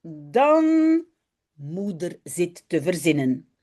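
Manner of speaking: put-on lively read-aloud for children; story reading. A narrator's reading. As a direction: read the story brightly with voices. Reads Dutch children's story aloud. (lecture d'une histoire pour enfants)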